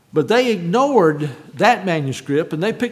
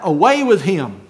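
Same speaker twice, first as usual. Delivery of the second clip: raised-voice imitation of a crowd's cry; 4 dB louder than usual. Preacher quotes the crowd against Jesus, crying out. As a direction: call it out forcefully, falling at the end. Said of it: "they cried out".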